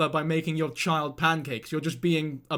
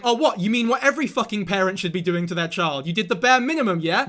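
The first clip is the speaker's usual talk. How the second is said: sarcastic comeback. Retold or imitated. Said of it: "And I'm like".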